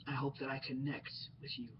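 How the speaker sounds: whispered, close to the mic; soft sincere whisper. Real, not acted. Vlogger whispering his hope to connect with viewers. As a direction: let the hope drop to a near whisper.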